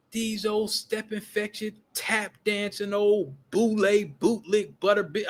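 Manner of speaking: slow, drawn-out string of insults; understated mock venom, dragged out; imitated vicious insults. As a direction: retell a tirade word by slow word. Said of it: "just vicious".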